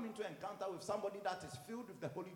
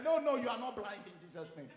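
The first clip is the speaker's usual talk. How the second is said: raised voice, insistent correction; retold parental insistence; 2 semitones higher, 5 dB louder than usual. Father to joking child, retold loud insistence. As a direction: overrule the child firmly and loudly.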